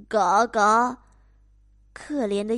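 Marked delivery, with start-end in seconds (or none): 0.1-1.0 a loud, worn-out quack; 鸭子大声嘎嘎叫; loud duck quack. Acted. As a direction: quack back like an exhausted duck. Duck answers.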